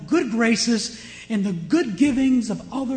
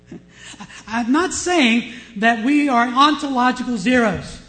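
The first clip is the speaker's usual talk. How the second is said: laughing; 3 semitones higher, 5 dB louder than usual. Real, not acted. Pastor laughs off misreading.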